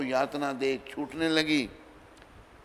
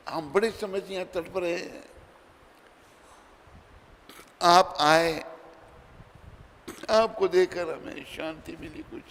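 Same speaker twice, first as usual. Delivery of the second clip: pleading souls; 6 semitones higher than usual. Acted. Souls begging Janak to stay.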